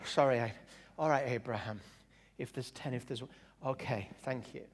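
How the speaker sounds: low, soft, sheepish climb-down; parody God. Acted. God giving in to Abraham, mock sheepish. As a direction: back down quietly, pitched low. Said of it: "And God is like".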